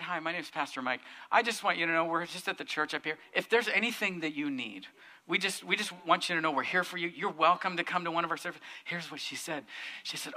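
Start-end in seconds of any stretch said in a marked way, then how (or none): 0.0-8.6 gentle welcome. Retold or imitated. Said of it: "I said".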